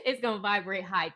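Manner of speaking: laughing. Real, not acted.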